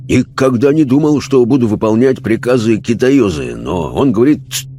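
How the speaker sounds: lightly voiced rough seaman, lively swings; bemused sailor. Sailor spirit puzzled at obeying the guide, bemused. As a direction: grumble good-naturedly like an old salt.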